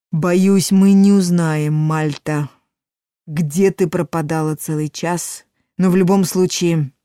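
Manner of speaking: громкий, наставительный голос старого мага; объясняй как мудрый верховный маг; голос верховного мага. Acted. Маг говорит с Мальтой. (верховный маг, наставительно)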